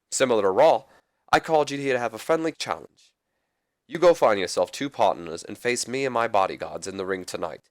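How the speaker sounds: lightly imitated British lord's accent; a hint of a badly faked British accent for the commissioner; Regal accent. Commissioner challenging Jericho to a match, lightly faked British accent. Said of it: "That's a horrible Regal accent".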